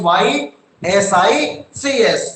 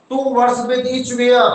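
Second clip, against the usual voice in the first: slow dictation; much slower than usual. Shown as a demonstration. Teacher dictating question slowly.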